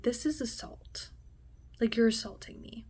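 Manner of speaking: unvoiced, stunned whisper; shaken whisper. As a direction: breathe it out in disbelief. Confronting assault.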